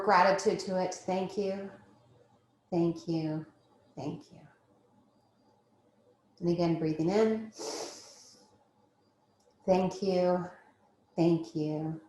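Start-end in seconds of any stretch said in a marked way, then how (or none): 0.9-4.4 fading thank you. Acted. Gratitude mantra, fading. 9.7-12.0 fading thank you. Acted. Gratitude mantra, fading.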